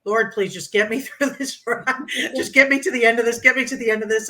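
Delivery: a frightened rider begging the Lord to get her through; desperate prayer. Retold or imitated. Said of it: "I think I prayed and cried".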